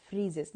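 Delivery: "freezes" with an extra iz syllable. Shown as a demonstration. Teacher modelling the plural, "freezes" with iz. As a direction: say "freezes" with a buzzing z ending. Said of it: "we pronounce it as".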